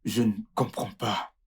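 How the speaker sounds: low, soft disbelief; stunned. Acted. Husband hearing of the sperm mix-up, stunned. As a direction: say it quietly, struggling to take it in.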